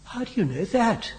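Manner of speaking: high-pitched heated cry; hot indignation. A narrator's reading. Henry challenges Biggles about the number, hotly. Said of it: "cried Henry hotly".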